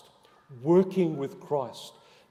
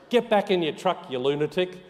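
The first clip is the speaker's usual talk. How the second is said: a louder, higher mock yell at a stranger; retold yell; 4 semitones higher, 5 dB louder than usual. Drivers yelling at a man out of his truck, mock angry shout. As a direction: shout it like an annoyed driver in traffic. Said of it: "People were yelling at me".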